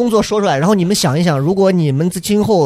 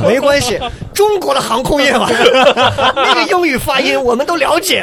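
much higher, giggling through it; laughing; 8 semitones higher than usual. Real, not acted. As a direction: laugh while talking. Laughing teasing.

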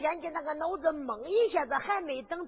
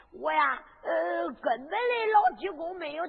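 mock crying plea. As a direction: fake tears to win her over. Character pleads, breaking down. (假哭哀求)

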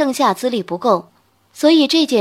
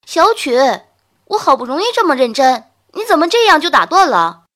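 loud, high annoyed outburst; angry; 4 semitones higher, 6 dB louder than usual. A narrator's reading. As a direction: scold him for interrupting. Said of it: "韩月月气得差点用琴弓去抽他".

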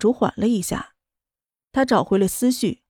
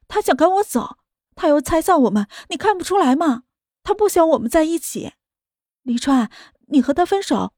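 higher, frantic pleading; mild yell; 4 semitones higher than usual. Acted. Sister-in-law yelling at him in near-breakdown, higher. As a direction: insist frantically, close to breaking. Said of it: "江晚竹立刻吼道".

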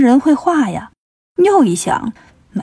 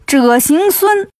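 high, drawn-out name call; 5 semitones higher, much slower than usual. Acted. Demon in mid-air calls Wukong's name, high slow call. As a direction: stretch each syllable high, like calling from afar. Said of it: "银角又喊".

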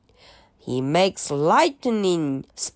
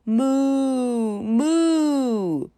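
1 mooing cow; 3 semitones higher than usual. Pretend. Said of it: "一头牛一样".

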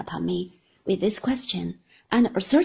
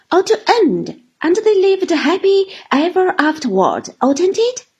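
loud, much higher and quick little woman's patter; rattling chatter; 5 semitones higher, 8 dB louder than usual. Acted. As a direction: rattle it off, brisk and sly. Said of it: "rattled away with surprising volubility".

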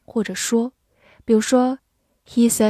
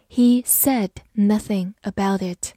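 measured reading. Shown as a demonstration. Teacher gives the past-tense sentence to learners, measured pace. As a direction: read it out carefully in short chunks. Slower first take of example.

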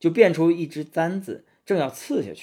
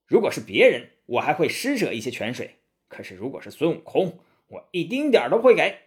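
scornful refusal. Acted. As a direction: spit out the last line at Wukong. Angry immortal refuses Wukong.

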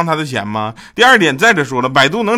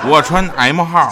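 slow line through a laugh; 3 semitones higher, 4 dB louder than usual. Real, not acted. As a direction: chuckle the words out slowly. Laughs at his own joke.

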